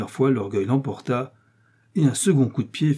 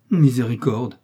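louder exclamation of dismay; dismayed cry; 6 dB louder than usual. Acted. Innkeeper hears how much wine was drunk, crying out. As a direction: cry out in mild alarm. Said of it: "s'écria l'hôte".

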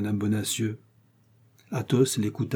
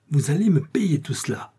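loud, higher exasperated cry; 6 semitones higher, 5 dB louder than usual. A narrator's reading. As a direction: shout it at the guests, exasperated. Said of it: "cria l'hôte exaspéré". (crie, exaspéré)

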